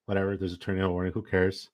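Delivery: low-key, quick mock indifference; nonchalant. Husband imitating his wife's reaction to a tornado warning, nonchalant. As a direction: toss it off softly and fast, imitating an unbothered wife. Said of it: "So nonchalant".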